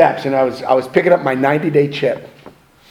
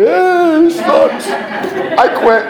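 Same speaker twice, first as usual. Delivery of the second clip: much higher, louder, laughing; mock captain quitting; 4 dB louder, much slower than usual. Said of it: "Imagine that".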